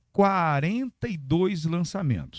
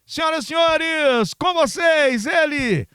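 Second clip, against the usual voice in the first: drumroll hype for the star guest; grand entrance announcement; 6 semitones higher, slower than usual. Acted. Presenting the guest.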